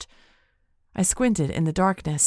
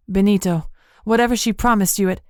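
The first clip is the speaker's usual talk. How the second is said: louder, quick urgent plea; urgent pleading; 4 semitones higher, 5 dB louder than usual. Acted. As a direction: rush it, begging.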